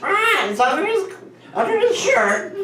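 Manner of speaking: high squawky parrot voice, climbing; parakeet voice. Acted. Comic voicing the parakeet that spoils the magician's trick, high and squawky. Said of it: "you hear the bird go".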